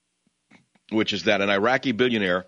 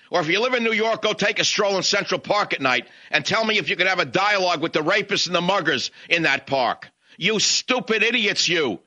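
heated higher-pitched tirade; worked up; 6 semitones higher than usual. Real, not acted. Host ranting at liberal listeners, heated and scornful. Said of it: "I'm getting so worked up".

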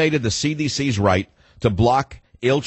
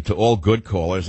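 "good" pointedly emphasized; stress on GOOD; 4 semitones lower than usual. Real, not acted. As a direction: lean on the word "good". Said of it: "the emphasis on the word good".

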